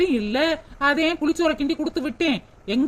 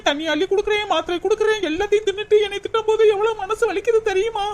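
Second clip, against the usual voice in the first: higher, sobbing through the list of chores; crying complaint; 3 semitones higher than usual. Acted. Daughter-in-law sobbing to her friend about endless housework. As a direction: wail out every chore she does.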